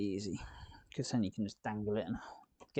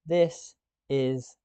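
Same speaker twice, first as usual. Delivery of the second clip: exasperated; 3 semitones higher, 8 dB louder than usual. Real, not acted. Exasperated complaint about frog.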